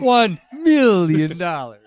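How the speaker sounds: a light slow Doctor Evil impression. Friends recalling a bit, slow mock villain line. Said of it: "So then he was doing Doctor Evil".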